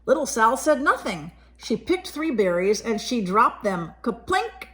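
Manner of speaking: put-on gentle read-aloud voice for a child; story narration. A narrator's reading. Reading a picture book to a child, gentle storytelling. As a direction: tell it like a bedtime picture book.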